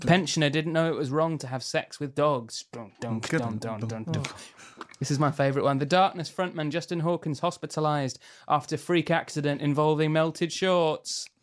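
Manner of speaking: mock news anchor delivery; newscaster voice. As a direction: read headlines like a serious newsreader. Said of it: "I'm going to read in a pretend newscaster voice".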